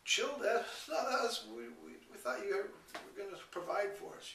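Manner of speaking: put-on high, loud voice of frightened children; cowering kids. Kids cowering before their angry dad, high frightened pleading. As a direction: squeak it out like scared kids pleading. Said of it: "my poor kids are just cowering back and going".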